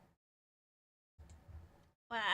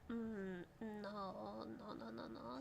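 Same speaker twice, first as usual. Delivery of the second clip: mock refusal; 4 semitones lower, 14 dB quieter, slower than usual. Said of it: "Twitch said".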